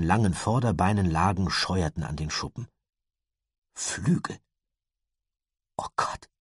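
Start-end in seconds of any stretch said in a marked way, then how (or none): 3.7-6.3 leise, tonlos gehaucht; fast unhörbares Murmeln. A narrator's reading. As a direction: hauch es ungläubig vor dich hin. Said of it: "murmelte Lucinda fast unhörbar". (kaum hörbar gemurmelt)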